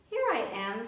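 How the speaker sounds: little deer shouting back to rescuers; shouted. Acted. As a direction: shout to be found. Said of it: "shouted Baby Deer".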